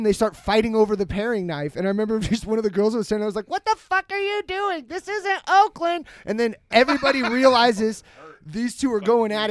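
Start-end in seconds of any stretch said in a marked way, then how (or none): 3.5-6.1 high-pitched mock alarm; retold outburst. Onlooker at a knife fight, high retold protest. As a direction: exclaim it high, imitating shocked disbelief.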